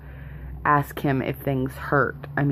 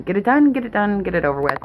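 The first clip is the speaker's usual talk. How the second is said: urgent; 6 semitones higher, 3 dB louder, faster than usual. Real, not acted. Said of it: "I wanna get".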